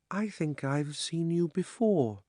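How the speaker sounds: high, slow and dreamy; dreamy, contented. Acted. Girl greeting Diggory, dreamy and contented. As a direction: drift the words out as if half asleep. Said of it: "in a dreamy, contented sort of voice".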